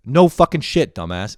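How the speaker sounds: mock scolding. Scolding himself.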